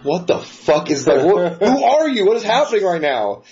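baffled disbelief at a stranger's rudeness; incredulous. Retold or imitated. Construction worker retelling his reaction to a rude boss, incredulous.

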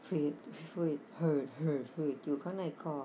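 sick bear's wheezy breaths; wheezy breathing. Shown as a demonstration. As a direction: gasp in, then raspy wheezing through the throat. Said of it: "เขาก็มีเสียงหายใจ".

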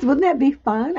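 ordinary talk

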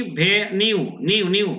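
"ভেনিউ" split as bhe-niu, tail repeated; modelled pronunciation. Shown as a demonstration. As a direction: drill the "নিউ" ending of "ভেনিউ". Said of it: "উচ্চারণটা কি?".

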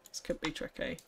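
hushed, breathy whisper. Acted. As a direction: whisper it to yourself. Repeated as an unvoiced whisper.

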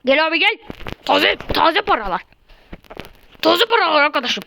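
singsong hawker call; melodic street vendor shout. Pretend. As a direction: call out wares like a bazaar seller. Hawking fresh money.

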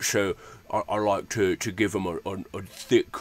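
heavy Cockney orc with jutting jaw; thick Cockney. Shown as a demonstration. Game master demonstrates his orcs' underbite, thick Cockney accent. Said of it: "heavy Cockney accent".

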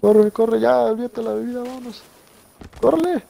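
frantic high-pitched urging; urgent yelling. Real, not acted. Urge a huir de zombies. (gritando con urgencia)

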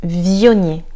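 "Vionnier" with the V hit hard; stress on V. Shown as a demonstration. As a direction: lean on the V of "Vionnier". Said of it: "on va accentuer la prononciation sur le V".

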